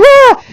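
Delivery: high startled yelp for the horse; startled horse cry. Retold or imitated. Trainer voicing the startled horse, a high yelp. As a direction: voice the horse jumping in fright. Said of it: "he's like".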